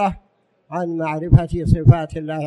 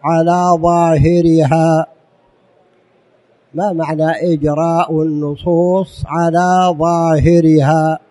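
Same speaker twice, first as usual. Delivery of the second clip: emphatic loud statement; 8 dB louder than usual. Real, not acted. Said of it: "القاعدة الثالثة".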